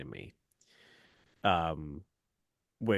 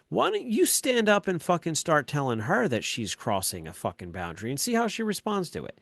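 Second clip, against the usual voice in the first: high, loud exasperated dare; retold angry rant; 7 semitones higher, 6 dB louder than usual. Dad daring his daughter to test her mom, high angry rant. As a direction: re-enact a dad's tirade, voice pushed up. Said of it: "I lost my shit".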